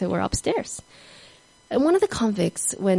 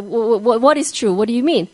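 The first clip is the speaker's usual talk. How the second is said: startled; 2 semitones higher, 3 dB louder than usual. Retold or imitated. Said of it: "was a bit startled and said".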